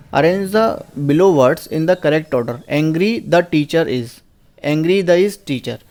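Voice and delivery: very slow, word-by-word reading; slow dictation. Shown as a demonstration. Teacher reading a quiz question to students, very slowly. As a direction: read each word so the class can follow. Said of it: "teacher reads exam question aloud".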